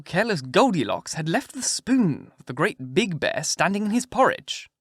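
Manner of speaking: measured fairy-tale storytelling; story narration. A narrator's reading. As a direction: read it out like a bedtime tale.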